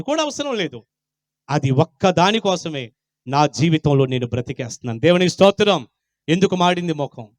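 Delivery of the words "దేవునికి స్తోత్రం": normal talking voice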